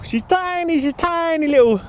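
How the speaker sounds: teasing the little sister in a squeaky high voice; squeaky tiny voice. Acted. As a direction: squeak it out like something very small. Teasing about little sister's size.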